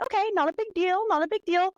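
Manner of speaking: high-pitched mock brush-off; feigned nonchalance. Girlfriend reassuring herself about his girl best friend, feigned nonchalance.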